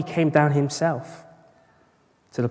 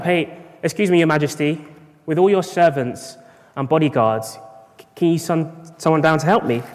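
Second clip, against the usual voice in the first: raised, higher mock shout up to the king; calling up from the hole; 4 semitones higher, 6 dB louder than usual. Man stuck in a hole shouts up to the passing king, raised and high. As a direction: call up loud and high from the bottom of a hole. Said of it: "and he shouts up".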